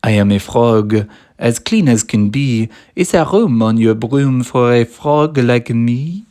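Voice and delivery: loud croaky frog voice; a keen frog asking to join; cheerful croaking frog. A narrator's reading. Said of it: "then said with a croak".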